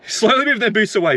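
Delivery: repeated through a scornful chuckle; bitter laugh. Real, not acted. Ranting driver mocks Uber's sneaky move, laughing bitterly. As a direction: laugh it out in disbelief.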